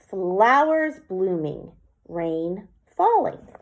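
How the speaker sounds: slow, measured haiku line; poem reading. Shown as a demonstration. Teacher reads her second haiku line, slow. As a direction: read it like a poem, slowly. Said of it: "The second line".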